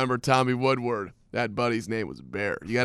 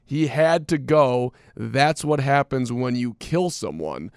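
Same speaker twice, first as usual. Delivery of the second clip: quoting Bear; slower than usual. Retold or imitated. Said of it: "Quote from Bear".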